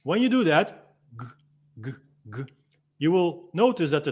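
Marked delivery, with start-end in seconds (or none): 1.2-2.4 "g" cut off before the vowel comes out; tiny stifled "g" bursts with pauses between; initiated G sound. Shown as a demonstration. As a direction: start "g" and hold the sound back. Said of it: "not really pronouncing the G".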